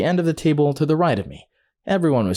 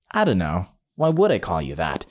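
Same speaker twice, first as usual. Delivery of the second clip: lower, dry sarcastic comeback; 4 semitones lower than usual. Retold or imitated. Teller answering the offended guy, mildly sarcastic. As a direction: drop the pitch for mock puzzlement. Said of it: "And I sarcastically said".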